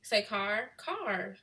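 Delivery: car with the R sounded, "kar"; Chicago-style car. Shown as a demonstration. Showing viewers how people say it, car with a sounded R. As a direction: say car with a clear final R. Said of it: "people do say, say car".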